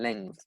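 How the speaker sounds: "length" low and soft, ending on th; pronunciation demo. Shown as a demonstration. Teacher points out the sound at the end, careful final th. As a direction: let the final th of "length" be heard. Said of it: "Con ese sonido al final".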